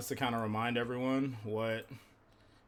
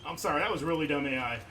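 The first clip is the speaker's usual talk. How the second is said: frustrated outburst; 8 semitones higher, 3 dB louder than usual. Real, not acted. Dying from a dumb AI mistake.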